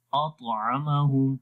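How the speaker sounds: 「اطعمہم」をとてもゆっくり、طを軽く; gentle recitation. Shown as a demonstration. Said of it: "تو آرام سے پڑھیں گے".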